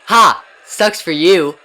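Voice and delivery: loud mocking taunt; overacted anime dub. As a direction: gloat at him loudly. Teasing rival about his rank.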